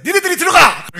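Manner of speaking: loud high yell at the swimmers; frantic shout. Retold or imitated. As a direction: yell the order across the beach. (다급하게 소리치는 외침)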